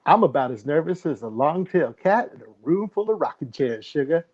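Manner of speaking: put-on Southern country accent; bad country accent. Co-host opening with a folksy saying, bad Southern accent. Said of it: "best not country accent".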